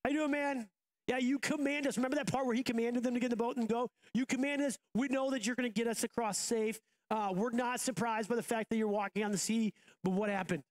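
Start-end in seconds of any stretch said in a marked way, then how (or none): 0.0-2.0 high, breezy dude voice greeting Jesus; high laid-back disciple greeting Jesus; casual disciples. Pretend. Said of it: "they should be like". 4.1-10.6 casual disciples. Pretend. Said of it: "they should be like".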